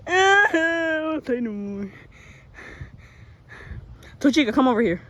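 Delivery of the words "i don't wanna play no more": laughing whine. Pretend.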